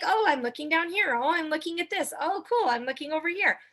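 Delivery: lightly voiced easily distracted viewer, airy and high. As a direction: flit between things like a distracted guest. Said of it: "we all need a little bit of a, like".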